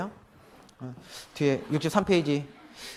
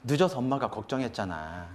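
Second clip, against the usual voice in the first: worried mother; 4 semitones lower, 6 dB quieter than usual. Shown as a demonstration. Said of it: "더 좋은 아이 메시지는".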